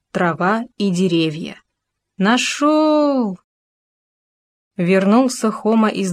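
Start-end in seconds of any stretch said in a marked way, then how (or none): 2.2-3.4 high triumphant shout; joyful shout. Acted. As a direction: call it out in delight. Second joyful discovery cry.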